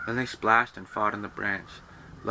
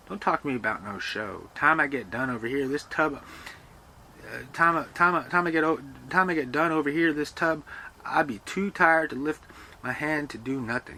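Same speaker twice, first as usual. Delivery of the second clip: a light voicing of a weary servant, louder; tired servant; 6 semitones higher, 4 dB louder than usual. Servant at the tub grumbles to Lester, lightly voiced. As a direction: lean on the tired complaint.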